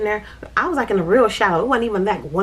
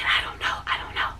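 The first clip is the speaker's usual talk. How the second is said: small, hushed retold answer; meek reply; 4 dB quieter than usual. Rescued child answering the sister's friend, faint meek voice. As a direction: imitate a stunned child, almost voiceless.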